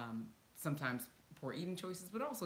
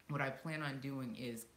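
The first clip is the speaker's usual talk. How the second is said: ordinary talk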